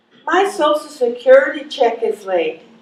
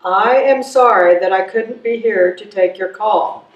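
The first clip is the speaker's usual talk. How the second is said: answering machine message; 4 semitones lower than usual. Acted. Recorded God's message to callers, mildly mechanical. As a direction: lower recorded announcement, rushing at the end.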